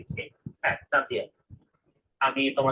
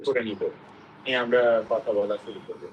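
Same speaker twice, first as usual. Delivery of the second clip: echo; 5 semitones lower than usual. Real, not acted. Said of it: "আপনার সম্ভবত ইকো হচ্ছে".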